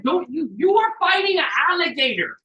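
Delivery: high, loud panicked plea; alarmed yelp. Retold or imitated. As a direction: freak out at the snake's stare. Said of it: "And I'm like".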